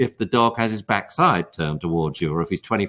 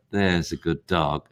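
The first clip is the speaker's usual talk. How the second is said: soft praise for a dog; 6 semitones lower, 4 dB quieter, slower than usual. Shown as a demonstration. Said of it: "go over and say".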